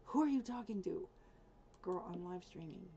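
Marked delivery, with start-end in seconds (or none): 0.0-1.1 higher, louder mock dog voice; voicing the dog. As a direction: play the puzzled dog, a bit loud. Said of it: "She's looking at me like".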